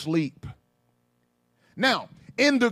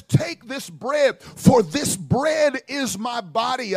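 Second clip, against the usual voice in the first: slow solemn Jesus; slower than usual. Retold or imitated. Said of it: "he says".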